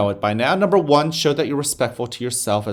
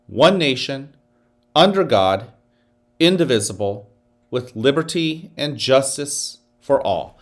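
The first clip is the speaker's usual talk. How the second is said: leading the pledge. Acted. Leads the Pledge of Allegiance.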